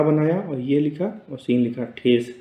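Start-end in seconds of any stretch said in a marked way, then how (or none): 2.0-2.3 ठेस with a clear short e sound, not ठीस; short e in thes. Shown as a demonstration. Teacher correcting the vowel for students, clear ठेस. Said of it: "ठीस नहीं पढ़ेंगे इसको".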